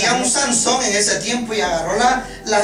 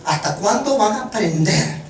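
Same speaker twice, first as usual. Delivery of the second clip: reclamo actuado, sin gritar; regaño moderado; 3 semitones higher than usual. Retold or imitated. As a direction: repite el regaño con firmeza contenida. Repite el regaño con menos fuerza. (imitando un regaño leve)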